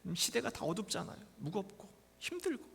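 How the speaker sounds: ordinary talk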